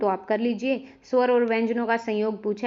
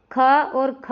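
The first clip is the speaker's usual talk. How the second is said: slow, careful demo; 4 dB louder, much slower than usual. Shown as a demonstration. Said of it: "नहीं बोल सकते हम".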